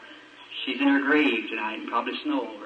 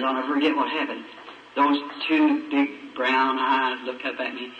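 ordinary talk, nothing marked

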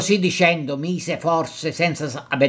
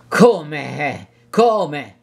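almost disdainful. Acted. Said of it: "con voce quasi sdegnosa".

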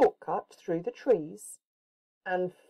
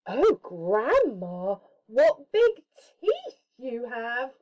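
mock fright; 5 semitones higher, 3 dB louder, slower than usual. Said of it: "she said".

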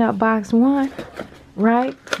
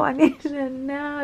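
laughing; 5 semitones higher, 3 dB quieter, slower than usual. Real, not acted. Eager to open the boxes.

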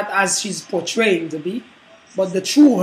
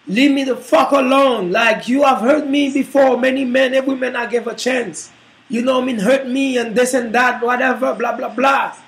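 angry woman; 4 semitones higher than usual. Acted. Woman yelling at man in movie.

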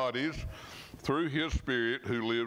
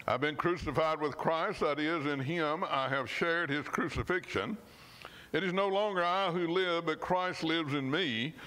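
earnest, measured Bible reading; scripture reading. Acted. Preacher reading Galatians to the church, earnest and measured. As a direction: read the verse like a promise you believe.

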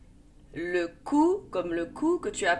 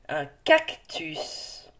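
slow model word; 4 semitones lower, much slower than usual. Shown as a demonstration. Teacher models a word slowly.

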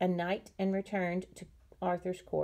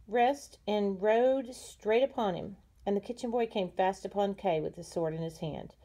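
ordinary delivery

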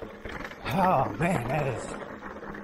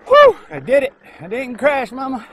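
loud, high whoop of relief; real jubilant cry to mama; triumphant shout; 9 semitones higher, 11 dB louder than usual. Real, not acted. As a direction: yell it out, thrilled you made it. Triumphant shout after risky descent.

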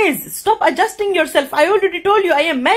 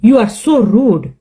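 offended rebuke; 3 semitones lower, 3 dB louder than usual. Pretend. Telling off the practice partner, offended. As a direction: lean hard on each word, affronted. Offended after the chat ends.

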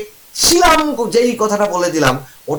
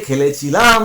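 "খেলেছিলাম" with its last syllables drawn out; stressed suffix; 4 semitones lower, slower than usual. Shown as a demonstration. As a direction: lean on the "ছিলাম" end of "খেলেছিলাম". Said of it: "কিলাম দিয়ে". ("খেলেছিলাম"-এর শেষটা টেনে জোর দিয়ে)

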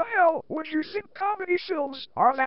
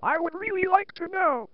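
computerized voice. Shown as a demonstration. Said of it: "using this computerized voice".

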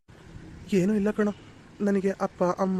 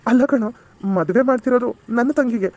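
loud correction; 7 dB louder than usual. Acted. Brother corrects panicking friend.

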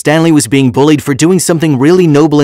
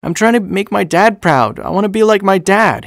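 put-on high, soft child voice; little boy; 6 semitones higher, 4 dB quieter than usual. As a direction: voice an earnest little boy higher than the narration.

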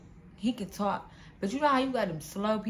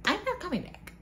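emphatic refusal; 11 semitones higher than usual. Real, not acted. Refusing the caller.

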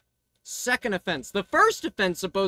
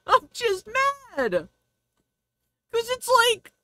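laughing; 9 semitones higher than usual. Real, not acted.

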